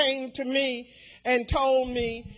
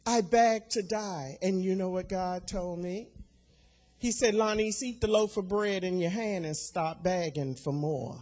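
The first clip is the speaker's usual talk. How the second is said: hushed grief; 4 semitones lower, 6 dB quieter than usual. Real, not acted. Recalls grief of sons' deaths.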